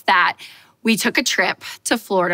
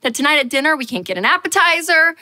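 panicked thoughts; 4 semitones higher than usual. Retold or imitated. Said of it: "I was like".

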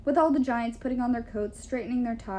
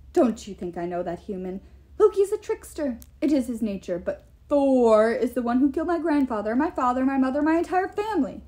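angry giant king; 2 semitones higher, 5 dB louder than usual. Acted.

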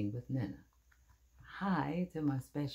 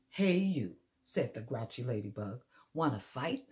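grouchy challenge. Acted. Grouchy ladybug picks a fight.

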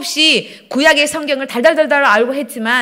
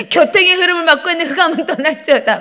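imitated casting-out decree, pitched up; commanding prayer; 5 semitones higher, 4 dB louder than usual. Stuck driver banishing darkness from the traffic, retold as commanding prayer. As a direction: declaim it like a forceful prayer command. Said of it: "막 이러면서".

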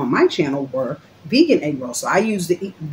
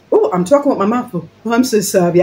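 mock apology; 3 semitones higher than usual. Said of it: "I'm just joking".

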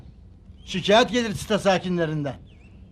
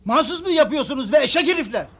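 higher, angry outburst; raised, outraged voice; exasperated yell; 5 semitones higher than usual. Acted. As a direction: shout abuse after the vendors. Resident furious at renewed shouting.

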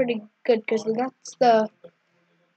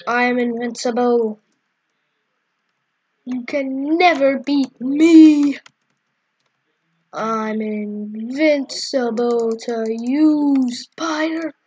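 slow, gloating mock boast; megalomaniac rant. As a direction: lord it over the spider. Boasting at the spider mob.

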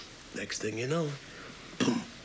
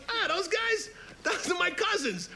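lightly voiced mobster pig; 12 semitones higher than usual. Fredo the mob pig boasting.

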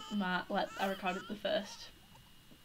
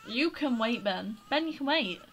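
scolding; 3 semitones higher, 5 dB louder than usual. Real, not acted. Scolding the baby Ben.

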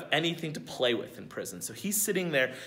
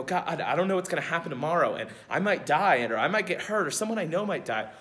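louder, rushed, anxious pleading; fearful rush; 4 dB louder, faster than usual. Retold or imitated. Someone living in fear blurting worries to God, panicked.

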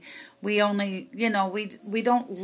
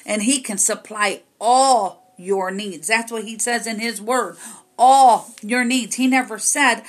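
rising, louder pulpit preaching; fiery preaching; 3 dB louder than usual. Acted. Preacher rebuking the congregation for limiting God, forcefully.

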